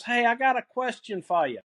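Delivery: lightly put-on Philadelphia accent. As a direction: imitate an older Philadelphia man's accent. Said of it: "in this thick Philadelphia accent".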